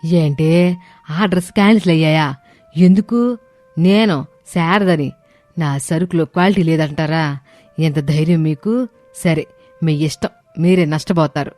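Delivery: high-pitched, affronted phone argument; mother-in-law talking loudly. Acted. Mother-in-law hearing on the phone that orders are cancelled, indignant. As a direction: argue indignantly as an offended businesswoman. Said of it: "ఫోన్లో ఎవరితోనో గట్టిగా మాట్లాడుతూ".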